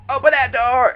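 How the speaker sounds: high and loud pounding demand; imitated yell. The raging man outside the door, yelling at her. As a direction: shout it like someone banging outside. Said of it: "rumbling sounds of".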